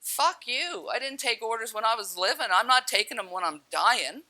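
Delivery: defiant retort. Retold or imitated. Drowning woman refusing orders from the voice, defiant. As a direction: talk back to a bossy voice.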